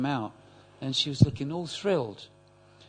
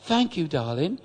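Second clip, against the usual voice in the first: put-on higher, louder, slow old lady voice; an old lady marvelling over the book about the blue boy; 4 semitones higher, 6 dB louder, slower than usual. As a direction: linger over each word as a dreamy old lady.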